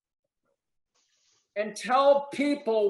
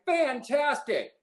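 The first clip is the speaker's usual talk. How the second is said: mock delight; 6 semitones higher, slower than usual. Shown as a demonstration. Cheerful answer to customer's no.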